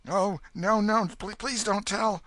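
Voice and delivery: put-on high, urgent pleading boy; exclaimed plea. Huck begging the sons not to tell anyone. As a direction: blurt out the plea, desperate.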